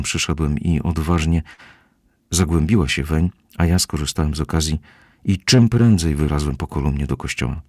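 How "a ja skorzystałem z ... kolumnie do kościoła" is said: usual speaking voice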